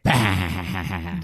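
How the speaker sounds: evil laugh. Retold or imitated. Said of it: "I feel like it's an evil laugh".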